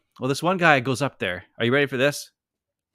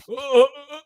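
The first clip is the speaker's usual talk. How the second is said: flustered stammer; 14 semitones higher, 6 dB louder, slower than usual. Retold or imitated. Passenger stunned speechless.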